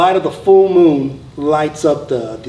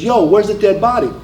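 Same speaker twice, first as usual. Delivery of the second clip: higher-pitched New York accent, retold shout; 5 semitones higher than usual. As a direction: imitate a corporal calling out in a New York accent. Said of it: "now with his New York accent".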